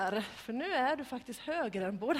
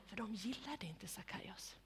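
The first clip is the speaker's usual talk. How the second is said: hushed storyteller whisper about Sackaios; whispered aside; 10 dB quieter than usual. A narrator's reading. Storyteller letting the children in on a secret, whispered.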